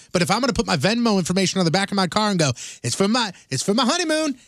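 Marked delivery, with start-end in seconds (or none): 2.8-4.4 high, drawn-up mock honeymoon plea; mock pleading. Host mocks couples begging passing drivers for money, mock pleading. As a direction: beg strangers in a high, put-on voice.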